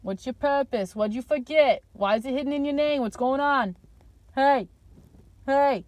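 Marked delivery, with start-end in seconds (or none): 4.3-5.8 mock catcall. Mock catcalling an imagined person.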